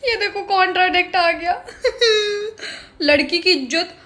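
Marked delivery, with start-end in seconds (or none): 0.0-3.0 "ये देखो कॉन्ट्राडिक्ट आ गया" said through laughter, pitch higher; laughing. Real, not acted. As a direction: laugh out the line at the contradiction.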